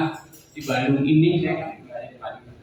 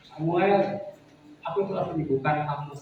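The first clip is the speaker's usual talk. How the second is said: raised, commanding voice of God calling Samuel; firm voice of God; 4 semitones higher than usual. Retold or imitated. God calling Samuel in a dream, firm and raised. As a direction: speak as God, firm and insistent. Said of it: "Tuhan tegas ngomongnya tuh".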